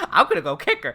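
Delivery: laughing quote. Retold or imitated. Laughing while quoting Misa's exact words. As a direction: giggle out the quote. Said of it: "that's her exact words".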